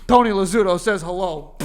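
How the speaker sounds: laughing through the quote; laughing retelling. Retold or imitated. Retelling the cartoon gunman, cracking up. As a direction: fight giggles as you deliver the gunman's line.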